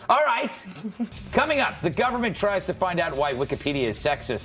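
upbeat host throw to the sponsor; show host tease. Pretend. Host's announcer tease.

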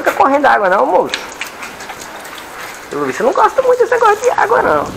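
high, fast pet-talk teasing. Real, not acted. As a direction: tease the scared dog in a high coo. Coaxing the dog at bath.

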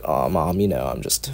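put-on low, soft goth girl voice; tired goth girl murmuring to mom. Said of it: "I was just like".

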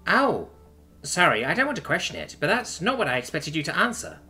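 a touch of puzzled curiosity; genuinely curious. A narrator's reading. Chuck surprised by her lover's yes, curious. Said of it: "genuinely curious".

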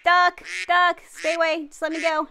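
loud panicked shout; alarmed yelling. Real, not acted. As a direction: yell it in panic. Fleeing the duck.

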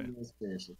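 Church Lady cadence. Retold or imitated. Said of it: "I knew it had that cadence".

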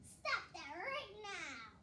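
slow stern witch command; yelling witch. Acted. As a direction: order them to stop at once. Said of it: "the witch flapped her arms and yelled".

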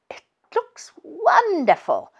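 breathless, hushed delight; awed whisper. Acted. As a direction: whisper it in wonder. Admiring the polished stove.

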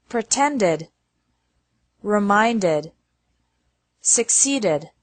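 "decided", "ended", "needed" with ED as its own syllable; careful word-list demo, "expanded" ending in a separate "id"; ED as extra syllable. Shown as a demonstration. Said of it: "E D only has an extra syllable".

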